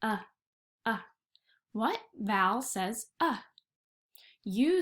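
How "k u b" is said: K-U-B stretched sound by sound. Shown as a demonstration. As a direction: stretch cub apart slowly. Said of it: "What vowel did you hear in the word cub?".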